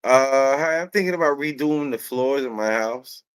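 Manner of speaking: put-on American accent. Customer inquiring at a hardware store, American accent. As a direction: open politely in an American customer voice. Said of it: "talking, you know, with an American accent".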